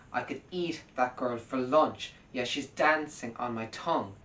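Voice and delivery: "eat" and "dancing" hit hard, falling; stress on each line's key words. Shown as a demonstration. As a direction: stress the beats of the lyric. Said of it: "is a question of emphasis".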